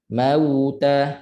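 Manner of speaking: "mauta" with a fully rounded, held w glide; clear waw. Shown as a demonstration. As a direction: pout properly into the middle of "mauta". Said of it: "Waw muncul betul-betul". ("mauta" dengan waw muncul betul-betul)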